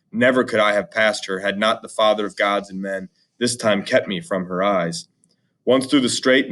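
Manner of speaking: measured epic read-aloud; a teacher reading the epic to students; story narration. A narrator's reading. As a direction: read the Odyssey to the class, steady and dramatic.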